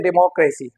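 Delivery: "डेमोक्रेसी" as de-mo-KRAY-see; common mispronunciation. Shown as a demonstration. Teacher repeating the learners' error, mispronounced. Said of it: "we mispronounce this word".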